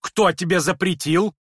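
high, loud startled question; sharp demand. Acted. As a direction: whip round as if stung. Lizaveta spins round, alarmed.

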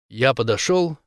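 usual speaking voice

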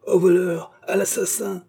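high narrated howl of alarm; yelling the alarm. A narrator's reading. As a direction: yell for help in a high voice. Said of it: "hurla Rocambole".

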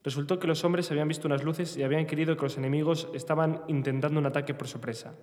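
novel narration, read steadily; voz de lectura. Acted. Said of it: "Una voz cavernosa de lectura". (lectura de novela en voz alta)

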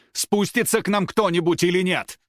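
high, loud call up at the camera; loud demand. Acted. Татьяна calls up to the surveillance camera, loud and demanding. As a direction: shout up to whoever is watching.

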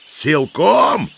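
high outraged echo; old man's shout. A narrator's reading. Old man echoes the commander's threat, outraged shout. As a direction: throw the word back in a high cry. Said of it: "закричал старик".

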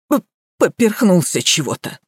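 bleating stammer. A narrator's reading. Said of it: "проблеял садовник".

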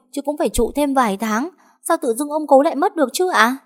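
gào khóc cao và to, giọng khác hẳn; kêu la như muốn cả nhà nghe thấy; gào ầm lên. Acted. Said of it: "gào ầm lên". (gào khóc lớn, buộc tội mợ)

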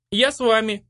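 spring up to join them; eager girl. A narrator's reading. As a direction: Iriska insisting on coming along, eager and high. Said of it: "взвилась Ириска".

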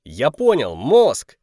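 loud eager shout; excited shout. Acted. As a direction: blurt out the answer. Hero shouts his guess.

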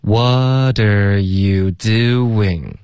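extremely drawn-out, every syllable held long; very slow repetition. Shown as a demonstration. Teacher leading repeated practice, extremely slow. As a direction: stretch each word as far as it goes. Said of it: "我们再说几遍".

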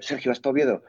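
petición animada a un colega, más aguda; encargo entusiasta. Retold or imitated. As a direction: pide un favor con ilusión, subiendo el tono. Pide el disco a Sergio. (encargo ilusionado y agudo)

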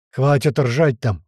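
slow, loud order barked over a microphone; a loud, slow telling-off; the captain's slow, loud shout over the loudspeaker; shouting into a mic. Acted. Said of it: "крикнул в микрофон капитан".

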